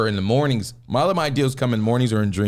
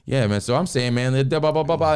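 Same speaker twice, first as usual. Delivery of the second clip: imitating a comic raising his voice; rising voice; 4 semitones higher than usual. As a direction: build up the volume as the room quiets. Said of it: "as they went down, his voice went up".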